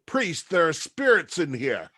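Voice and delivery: understated call of alarm to the priest; mild yell. Acted. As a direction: call out a warning, half-shouted. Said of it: "I yell".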